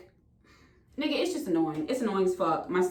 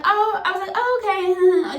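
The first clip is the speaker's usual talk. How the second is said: surprised oh; 7 semitones higher than usual. Retold or imitated. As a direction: act pleasantly caught off guard.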